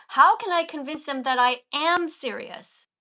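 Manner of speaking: key words stressed, each one given weight; emphasized reading. Shown as a demonstration. Vegan teacher showing the student how to read with emphasis. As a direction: lean on the important words. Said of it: "You see how I said it?".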